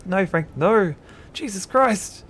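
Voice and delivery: high, loud anguished cry; bellowing. Acted. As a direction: bellow in horror at a friend's fate. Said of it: "William Mayfield bellows".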